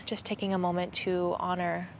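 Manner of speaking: gentle, reverent guiding voice; unhurried, letting the line settle softly at the end; guided meditation. Acted. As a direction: hold a quiet moment of remembrance. Leads a moment of remembrance.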